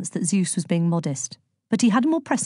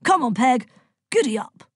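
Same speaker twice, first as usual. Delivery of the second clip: higher-pitched, understated yell to a horse; 6 semitones higher than usual. A narrator's reading. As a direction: urge the horse on with a mild call. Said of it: "yelled Zeus".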